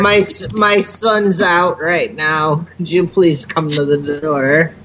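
put-on slow, quavering old lady plea; frail senile granny at the door. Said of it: "pretend to be the old senile lady".

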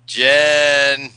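long, drawn-out name call; lingering call into silence. Pretend. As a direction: call the name and hold the vowel. Calling to silent caller by name.

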